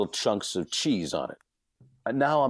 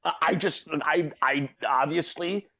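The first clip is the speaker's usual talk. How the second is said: high, pumped-up apology; mock frenzied sorry; retold frantic apology; 4 semitones higher than usual. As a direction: apologize while still wired. Apologizing to deli guys.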